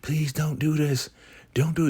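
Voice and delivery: very high-pitched mock female pleading; imitated begging. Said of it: "And now she's begging".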